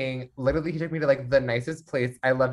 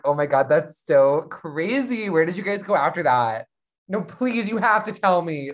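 gossipy gushing; 3 semitones higher, 3 dB louder than usual. Retold or imitated. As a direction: lightly imitate a giddy friend begging for details. The speaker gossiping like sleepover girl.

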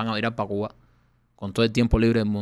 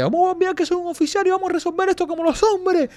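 laughing while quoting; 5 dB louder than usual. Retold or imitated. Officer quote told while laughing.

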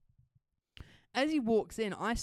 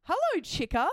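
man's greeting; 6 semitones higher, 4 dB louder than usual. Retold or imitated. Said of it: "this dude looks at me and goes".

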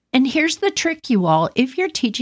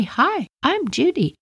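teaching the parakeet; 6 semitones higher than usual. Shown as a demonstration. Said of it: "I would say".

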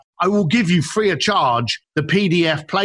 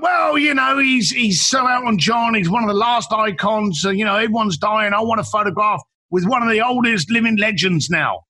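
lightly voiced client, higher-pitched and rambling; casual client; 5 semitones higher than usual. Client explaining why he wants to meet a famous singer, casual and higher-pitched. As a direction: toss out reasons in a higher voice. Voicing client's shallow reason.

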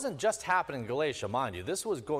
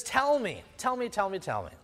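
sarcastic; 5 semitones higher, 4 dB louder than usual. Retold or imitated. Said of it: "he's sarcastically saying".

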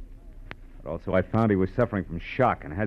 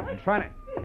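tearful laugh; 11 semitones higher, 4 dB quieter, slower than usual. Acted. Told to do her crying.

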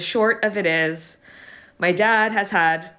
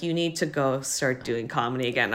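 tired family nag; 5 semitones lower, 5 dB quieter than usual. Retold or imitated. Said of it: "than how they're saying it".

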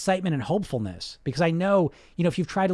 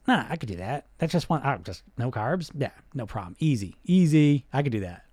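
cocky brain voice. Retold or imitated. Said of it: "your brain says".

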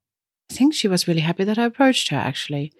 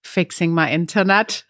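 deadpan, no lift in pitch; very dry. Retold or imitated. Caller answering weekend question, very dry imitation. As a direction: answer matter-of-factly, bone dry. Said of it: "Very dry, very German, by the way".

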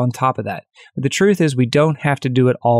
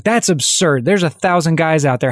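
flipping out; 3 semitones higher than usual. Retold or imitated. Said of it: "the new guy about blows his lid".

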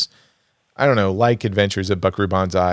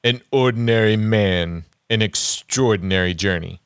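a touch of movie trailer narrator; attempted trailer voice. Shown as a demonstration. Host reading poster taglines aloud, attempted trailer voice. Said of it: "I'll try and do it in the trailer voice".

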